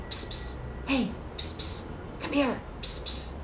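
unvoiced, secretive call; stage whisper. Shown as a demonstration. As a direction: whisper so nobody wakes. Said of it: "And then I say".

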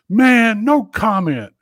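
lightly voiced pissed-off Mike Vick; mock Mike Vick. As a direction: bark it out like an annoyed player. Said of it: "he goes".

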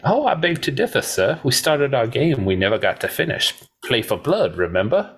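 a hint of movie-gunslinger impression; Doc Holliday. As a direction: needle a rival with a high opening and a lilt. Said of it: "And he goes".

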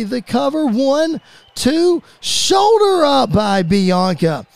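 steady match call, leaping up on big moves; play-by-play. Acted. Commentator calling Bianca against Bayley, play-by-play. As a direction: punch up the high spots as they land.

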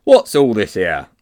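slow, loud official demand; important policeman. A narrator's reading. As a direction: demand an explanation with ponderous authority. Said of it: "said the most important of the policemen".

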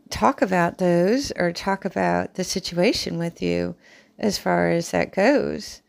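talking around a pin held in the lips; mouth full. Real, not acted. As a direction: speak with a pin between your lips. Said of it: "sorry, I had a pin in my mouth".

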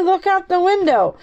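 very high, excited mock shout. A narrator's reading. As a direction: call out in a high-pitched voice. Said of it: "shouted Benny".

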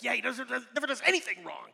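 resentful sibling mocking the perfect brother; sulky sarcastic sibling. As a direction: kid answering parents who praise Jesus. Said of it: "We're like".

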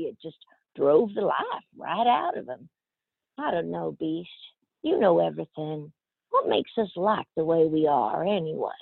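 lightly voiced sassy Southern girl, husky; Southern accent.

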